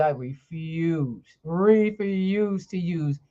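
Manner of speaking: slow, deliberate stress on each refuse; firm insistence. Real, not acted. To the host, refusing any other energy drink, slow and emphatic. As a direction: lean on refuse, refuse as a vow.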